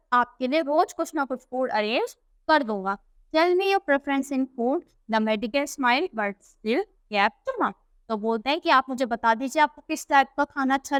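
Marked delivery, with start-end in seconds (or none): 3.3-7.7 reads the English text slowly and carefully; unhurried storybook reading; slow story reading. A narrator's reading. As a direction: read it out word by word for the class. Slow English read-aloud of story.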